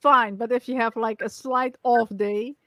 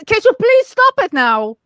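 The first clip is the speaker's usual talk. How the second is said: mock plea; 8 semitones higher, 6 dB louder than usual. Asking him to stop tapping.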